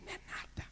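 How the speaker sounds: hushed, barely audible whisper under the breath. Quoting a brother who spoke quietly, said very quietly. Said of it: "que você falava quietinho assim".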